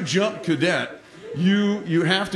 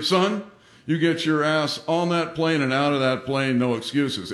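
firm father, dropping lower at the end; clear fatherly order; 3 semitones lower than usual. Retold or imitated. Father ordering son onto the plane, clear and firm. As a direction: lay it down clearly, lightly voiced dad. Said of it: "my father says very clearly".

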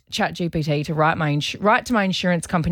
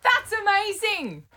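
mock amazement; 13 semitones higher, slower than usual. Mock amazed reading of post.

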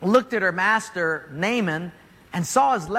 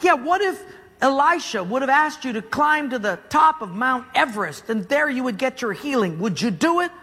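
pleading servant; 5 semitones higher than usual. Acted. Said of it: "his servant says".

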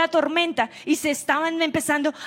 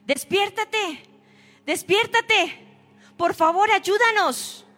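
frightened plea; 4 semitones higher, slower than usual. Acted. Disciples waking Jesus in storm.

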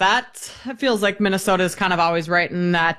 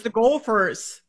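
Gophers with a Minnesota accent; hint of a Minnesota accent; slower than usual. Shown as a demonstration. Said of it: "The Minnesota accent comes out the same".

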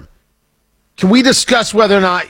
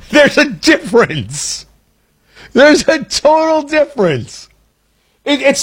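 higher, chuckling through the punchline; laughing; 7 semitones higher than usual. Real, not acted. Host laughing at his own Trump joke, amused. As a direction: let the laugh spill into the words.

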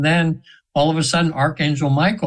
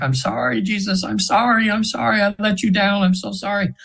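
higher, pleading mock cry; retold screamed apology; 5 semitones higher than usual. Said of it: "she's screaming like".

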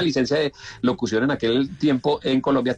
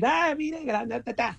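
much higher, soft mocking voice; imitating Lalo; 12 semitones higher, 4 dB quieter, slower than usual. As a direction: squeak out the boss's way of talking, much higher and softer. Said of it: "Porque él habla así".

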